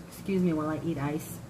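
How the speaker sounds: talking around ice; words round a mouthful of ice; mouth full. Real, not acted. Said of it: "ice in my mouth".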